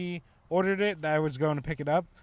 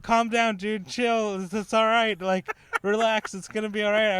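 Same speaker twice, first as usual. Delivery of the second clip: high, louder mock soothing; retold calming; 7 semitones higher, 5 dB louder than usual. Teller retells calming the upset kid, high and lively. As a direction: talk him down in an overexcited voice. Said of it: "and I was like".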